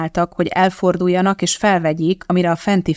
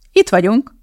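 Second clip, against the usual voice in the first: higher, louder sudden call; excited cry; 5 semitones higher, 5 dB louder than usual. A narrator's reading. Madeline spotting the studio car park, sudden excited cry. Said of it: "rikkantott fel Madeline hirtelen".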